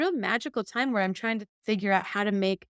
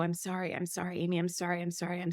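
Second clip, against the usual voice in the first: soft sorry; 6 dB quieter, faster than usual. Retold or imitated. Dead father's voice apologizing.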